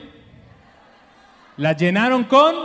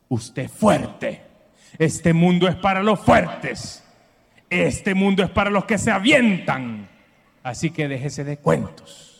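mom's pep talk; 4 semitones lower, slower than usual. Retold or imitated. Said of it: "esa frase de las mamás".

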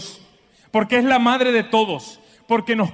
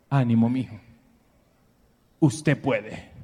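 lightly voiced firm mom; 9 semitones lower, 4 dB quieter than usual. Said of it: "Y me decía".

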